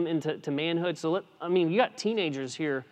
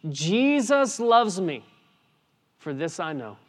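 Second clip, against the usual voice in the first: proclaimed; 3 semitones higher, 5 dB louder than usual. Shown as a demonstration. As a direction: declare the children's song boldly. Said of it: "That song is the foundation".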